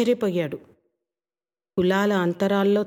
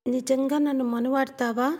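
put-on a higher, softer and sincere young woman's question; earnest, softer; 5 semitones higher than usual. Rangi earnestly asking if he will marry her. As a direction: ask it gently, really wanting to know. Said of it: "నెమ్మదిగా".

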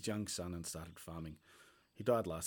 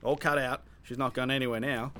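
louder, pleased and proud; satisfied; 5 semitones higher, 7 dB louder than usual. Acted. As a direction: announce the job done, chuffed.

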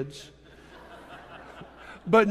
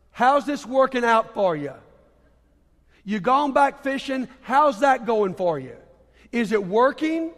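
lightly acted, pointed rhetorical questions; mildly teasing Jesus, voice a little lifted; needling everyday questioning; 3 semitones higher than usual. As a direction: poke at them in everyday vernacular. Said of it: "as if Jesus were saying, in our vernacular".

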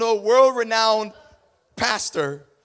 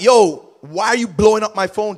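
annoyed who is this; 4 dB louder than usual. Retold or imitated. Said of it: "No, it's like".

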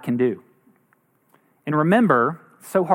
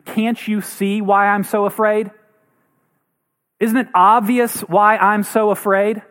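mild mock scream; 4 semitones higher than usual. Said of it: "we wanna scream".

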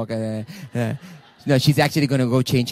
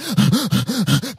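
short gasp; 4 semitones higher than usual. Shown as a demonstration. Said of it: "it starts with".

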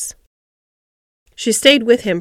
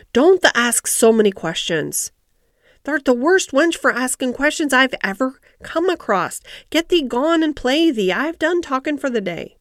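cross Yorkshire scolding, climbing higher; 4 semitones higher than usual. Acted. Ben, tired of Mary's questions, dismisses her crossly. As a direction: scold sharply and send the child away. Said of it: "he said it so crossly".

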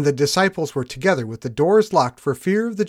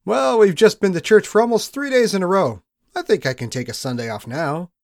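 lazy excuse; 3 semitones higher than usual. Retold or imitated. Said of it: "we've all thought it".

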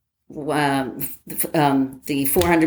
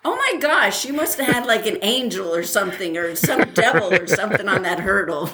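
higher, laughing amazement; amazed; 3 semitones higher than usual. Retold or imitated. Telling the lieutenant about the fall, amazed and laughing. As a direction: marvel at the luck through a laugh. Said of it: "I'm, like, going".

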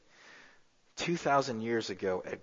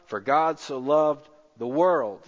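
louder, slowed preacher's climax; emphatic preaching; 4 semitones higher, 6 dB louder than usual. Real, not acted. Preaching the verse to the congregation, slow and loud. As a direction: lean into every word, slow.

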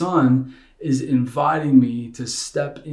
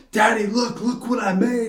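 put-on high, proud little boy showing off; a child beaming over his creation; proud toddler voice; 8 semitones higher than usual. Son shows his paper tower.

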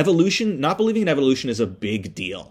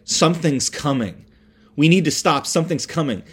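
rising to a frantic shriek; building scream; 6 semitones higher, 3 dB louder than usual. Retold or imitated. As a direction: chant it louder and higher each time. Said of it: "She starts, like, screaming".

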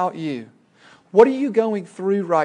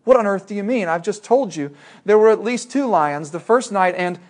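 mock disbelief, a bit higher and louder; indignant boy; 4 semitones higher, 4 dB louder than usual. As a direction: let Shasta sputter in protest. Boy objects in story.

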